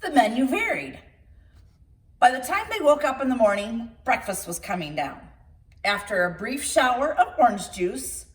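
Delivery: put-on lively read-aloud storytelling for children; storybook reading. Reader telling children a tall tale, lively storybook narration. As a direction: read it like bedtime story time.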